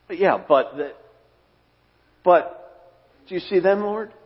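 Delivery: high, hesitant, complaining; mock the distracted believer, voice climbing; petty whine. Believer to the Lord about others, high whiny complaint.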